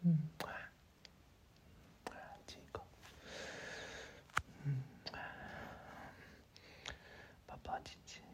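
barely audible, tender whisper; faint loving murmur; intimate whisper. Acted. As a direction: whisper affection very close, with long pauses. Hug and kiss, whispered comfort.

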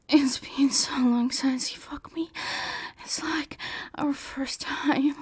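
soft breathy whisper. Acted. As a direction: whisper it close to the ear. Whispered lines.

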